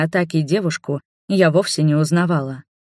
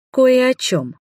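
pointed; 8 semitones higher, slower than usual. Acted. Heroine answers pointedly.

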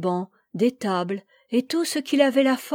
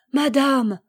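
cry out; 4 semitones higher, 5 dB louder than usual. A narrator's reading. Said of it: "s'écria Henri".

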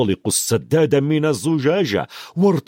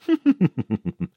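higher, delighted laugh; joyful laugh; 6 semitones higher than usual. A narrator's reading. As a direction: laugh with the thrill of flying. Harry delighted in flight.

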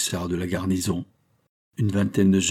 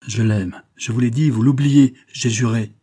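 louder, higher protest; almost menacing; 3 semitones higher, 6 dB louder than usual. A narrator's reading. Son reminds mocking father of his oath, almost menacing. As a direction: protest forcefully, rising in heat. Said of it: "presque menaçant".

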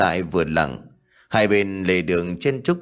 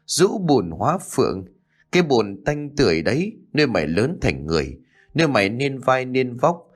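bitter reproach; 4 semitones higher than usual. Acted. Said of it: "chỉ còn gắn lên từng tiếng".

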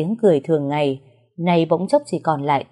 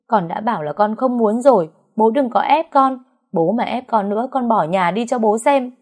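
upset outburst; 5 semitones higher than usual. Acted. Daughter threatens her father to leave home, higher upset cry.

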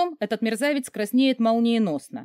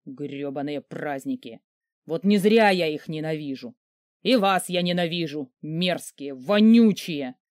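злое ворчание; 3 dB louder than usual. Acted. Великан ворчит и проклинает праздники.

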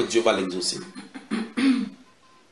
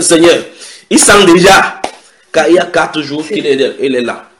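loud, high objection; urgent warning, pitched up and forceful; Martha's alarmed protest; 6 semitones higher, 11 dB louder than usual. Acted. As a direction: cry out in protest to the Lord.

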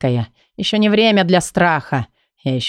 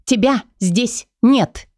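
higher, slow, numb woman's voice; stunned disbelief; 7 semitones higher, slower than usual. Acted. Лейла не верит, что Кай вернулся, медленно и тихо потрясённо. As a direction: she can't believe he is real. Leila cannot believe he is back.

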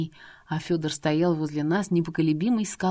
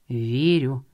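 calm reply; 5 semitones lower than usual. Acted. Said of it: "спокойно, спокойно ответил Фёдор".

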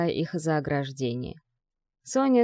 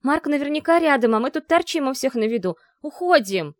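much higher, louder alarmed rush; panicky; 8 semitones higher, 5 dB louder than usual. Acted. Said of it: "занервничала Ви".

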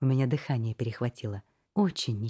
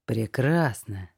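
relieved; 3 semitones lower, much slower than usual. Acted. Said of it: "с видимым облегчением выдохнул маг".

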